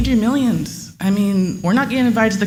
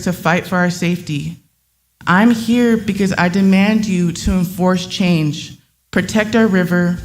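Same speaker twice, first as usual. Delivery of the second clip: reading a prepared statement. Acted. Resident reading her statement to the water board, firm and earnest. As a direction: deliver it like a protest speech.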